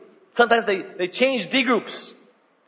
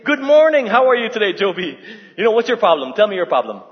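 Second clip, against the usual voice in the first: cheery greeting to the mirror, a touch louder; mock self-counseling; 6 dB louder, faster than usual. Preacher mocking someone counseling himself in the mirror, cheerful. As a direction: pretend to counsel yourself in the mirror. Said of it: "stand in front of a mirror and say".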